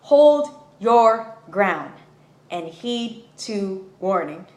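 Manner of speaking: slow, solemn voice from nowhere; mysterious inner voice. Retold or imitated. Voice she hears tells her to stand firm, slow and solemn. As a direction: hear a calm guiding voice, slowly. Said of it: "I hear this voice say".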